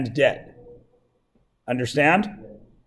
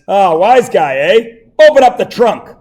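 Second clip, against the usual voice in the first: lightly voiced suspicious cop; gruff cop; 3 semitones higher, 4 dB louder than usual. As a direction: bark like a cop who smells a smart aleck. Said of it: "So then the cop says".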